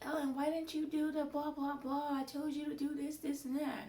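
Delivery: high, loud mock yelling at an assistant; imitated yell. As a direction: belt it like a scolding boss. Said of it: "she'll yell at me in English".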